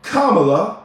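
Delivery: "Kamala" as KAH-muh-luh, set apart carefully; careful name pronunciation. Shown as a demonstration. Voter respectfully saying the candidate's name right, "Kamala" as KAH-muh-luh. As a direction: say "Kamala" with the stress on the first syllable, KAH-ma-la. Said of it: "I'm gonna say her name right".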